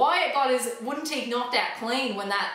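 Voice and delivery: mock Southern accent; southern country accent. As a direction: tell it like an old country farmer. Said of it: "that was southern".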